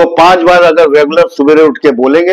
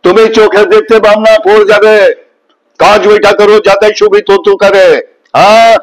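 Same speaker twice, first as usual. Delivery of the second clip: a higher Bengali-accented Nana Patekar voice; 6 semitones higher than usual. Shown as a demonstration. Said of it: "Nana Patekar Bengali में बोलेंगे तो". (बंगाली लहजे में नाना पाटेकर की नकल, ऊँची आवाज़ में)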